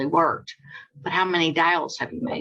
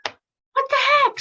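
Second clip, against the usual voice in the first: high, slow, disbelieving cry; stunned squeal at being hung up on; shocked squeal; slower than usual. Retold or imitated. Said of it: "I was like".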